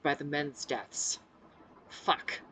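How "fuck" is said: whispered under the breath; muttered curse. A narrator's reading. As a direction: swear under your breath. Muttered curse at fouled pants.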